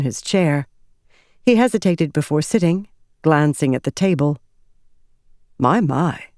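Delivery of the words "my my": a touch of pleased surprise; a light impressed murmur; young ardent mildly surprised by drawings. Acted. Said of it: "he said in surprise".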